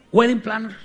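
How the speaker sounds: "Wedding planner" pronounced in English, loud and high; careful English pronunciation. Shown as a demonstration. Preacher trying out the English term "Wedding planner", careful pronunciation. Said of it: "sí lo estoy pronunciando bien".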